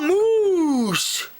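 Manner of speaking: high, drawn-out mock yell; retold scream. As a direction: imitate a frightened boy yelling, pitch way up. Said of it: "he screamed and yelled".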